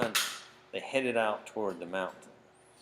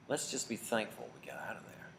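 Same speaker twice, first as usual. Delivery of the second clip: hushed whisper, softer; whispered relief; 6 dB quieter than usual. Acted. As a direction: breathe it out, glad to be safe. Relieved boys after narrow escape.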